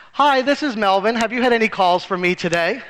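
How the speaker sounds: casual, untroubled phone greeting; very calm. Retold or imitated. Father calling the angry man as Melvin, calmly. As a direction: ask it innocently, perfectly calm. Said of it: "And very calmly, the father said".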